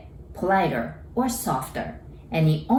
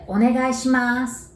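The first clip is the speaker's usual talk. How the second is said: Onegai shimasu called out higher and louder; calling a waiter; 6 semitones higher, 3 dB louder than usual. Shown as a demonstration. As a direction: call across the restaurant for a waiter. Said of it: "calling for a waiter".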